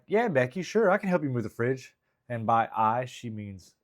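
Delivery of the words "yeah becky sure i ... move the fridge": high, loud mock girlfriend. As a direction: chirp an eager offer as the girlfriend. Acting out a girlfriend on phone.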